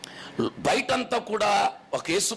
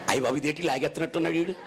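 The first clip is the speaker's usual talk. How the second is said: laughing quick thought; 3 semitones lower, much faster than usual. Retold or imitated. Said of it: "అనుకుంది".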